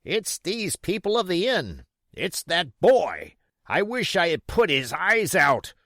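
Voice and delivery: high, loud vicious blame; angry cry. Acted. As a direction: spit out the threat. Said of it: "cried the blind man".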